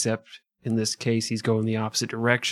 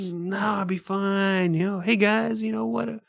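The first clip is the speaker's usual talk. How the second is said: meek pushover boss; 7 semitones higher than usual. Retold or imitated. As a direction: play the spineless nice-guy captain. Voicing a soft weak leader.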